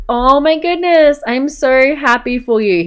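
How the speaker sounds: delighted reaction. Pretend. Dad hears about the baby, play-acted delight. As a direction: play a thrilled parent, voice lifted.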